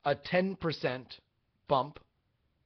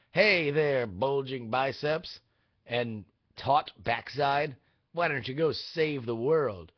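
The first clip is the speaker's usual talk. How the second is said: movie trailer voice; slower than usual. Acted. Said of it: "That's how I'm doing my trailer impression".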